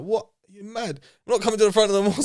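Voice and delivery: put-on startled teen refusing to go up front; shocked refusal. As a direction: balk loudly at being put on the spot. Shocked at being called up.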